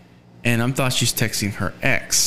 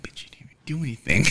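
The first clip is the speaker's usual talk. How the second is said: muttered retort; 2 semitones higher, 4 dB quieter, faster than usual. Acted. Acted retort to his date.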